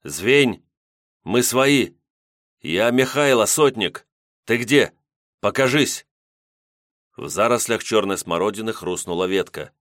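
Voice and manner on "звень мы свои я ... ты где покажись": calling out. Acted. Calling a hidden girl.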